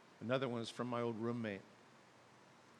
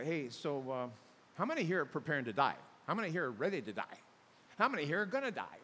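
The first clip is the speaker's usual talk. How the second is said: blunt funeral question; 3 semitones higher, 4 dB louder than usual. Pretend. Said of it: "I wanna go".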